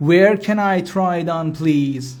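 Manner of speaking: slow, carefully spaced English; slow teaching demo. Shown as a demonstration. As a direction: spell it out slowly for learners. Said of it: "teacher models phrase for learners".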